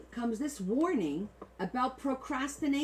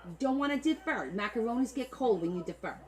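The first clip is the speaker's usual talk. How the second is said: hammed-up Italian-American macaroni accent; playful Italian-American put-on. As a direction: warn them in a mock macaroni accent. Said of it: "I'm gonna do it like the macaronis".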